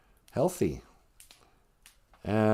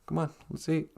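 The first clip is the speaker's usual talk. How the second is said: grandma calling; 6 semitones higher than usual. Retold or imitated. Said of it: "Grandma always said that".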